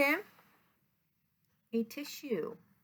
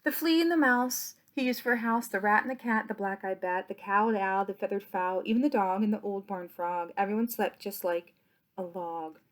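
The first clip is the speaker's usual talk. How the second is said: lower, lulling bedtime lines; 3 semitones lower than usual. A narrator's reading. Closing the bedtime story to the children, lulling. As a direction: wind the story down to sleep.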